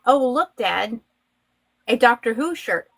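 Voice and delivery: lightly imitated little English boy; a hint of an English accent, as an excited-child quote. Little boy spotting the shirt for his dad, imitated English accent. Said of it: "English accent".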